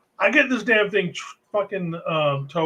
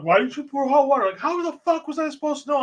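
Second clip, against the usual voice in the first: bosses; 8 semitones higher than usual. Retold or imitated.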